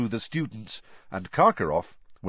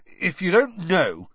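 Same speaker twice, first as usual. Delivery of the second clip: slow, cutting and higher; scathing; 9 semitones higher, 4 dB louder than usual. A narrator's reading. Ron scornfully refusing to tell Hermione, scathing. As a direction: sneer the words at her. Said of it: "said Ron scathingly".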